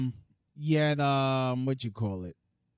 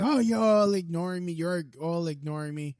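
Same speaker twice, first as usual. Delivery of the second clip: mock whine; 5 semitones higher, 5 dB louder than usual. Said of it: "he's like".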